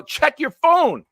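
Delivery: high, slow spelled-out command; slow emphatic call. Retold or imitated. Host repeats the order slowly, emphatic. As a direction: drag it out so he gets it. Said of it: "I go".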